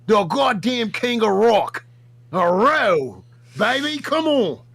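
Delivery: put-on rough Australian accent for the bit; put-on Aussie accent. Yo Mama calling out Buff Weeb in a put-on Aussie accent. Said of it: "Why are you Australian?".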